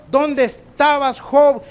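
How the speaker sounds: high, loud challenge to Job; God demanding where Job was; booming question. Acted. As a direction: thunder it out as God. God's question, preached loud.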